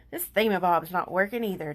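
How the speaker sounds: exasperated bouncy complaint; mock-fed-up shout; Tigger crying out. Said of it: "Tigger cried".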